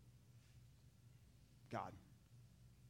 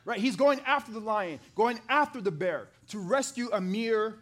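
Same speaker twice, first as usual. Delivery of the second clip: rising excitement; 4 semitones higher, 5 dB louder than usual. Real, not acted. Preacher builds excited argument.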